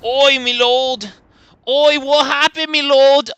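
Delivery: high, loud, hammed-up servile British voice; a sarcastic courtier begging his lord; mock blue-white player. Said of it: "impression of the blue-white player there".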